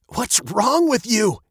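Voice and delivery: high, drawn-out indignant demand; loud scolding. A narrator's reading. Father steps between old man and daughter, scolding. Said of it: "he said loudly".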